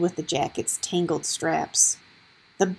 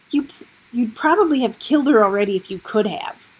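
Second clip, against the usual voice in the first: bitter, raised accusing voice; angry accusation; 2 semitones higher, 4 dB louder than usual. Acted. Gregor accuses them angrily.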